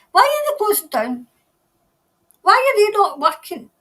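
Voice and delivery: high, loud indignant disbelief; mock outrage. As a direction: play up the shock, pitched high and loud. Mock outrage at Parliament closing.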